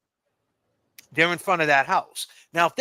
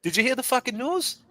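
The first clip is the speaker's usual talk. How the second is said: mocking rant; 5 semitones higher than usual. Mocking a nosy neighbour viewer.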